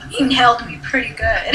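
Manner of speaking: amused chuckle through it; laughing. Real, not acted. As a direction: laugh as you repeat it. Repeating joke line amused.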